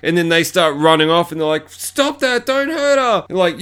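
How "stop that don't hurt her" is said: high put-on voice pleading for the girl; falsetto hero voice. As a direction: squeak it like a panicked rescuer. Rescuers voiced in movie retelling.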